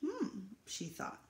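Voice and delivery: gentle storytelling read to an audience; picture book reading. A narrator's reading. Reading a picture book to the residents, lively storytelling.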